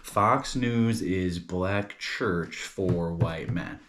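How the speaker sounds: drawn-out but connected phrase; recap in one run. Shown as a demonstration. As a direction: go over it slowly without long breaks. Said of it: "let's go over this".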